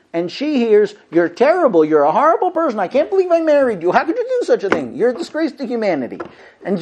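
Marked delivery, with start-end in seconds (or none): 1.1-6.2 loud accusing. Retold or imitated. What wife hears, accusing.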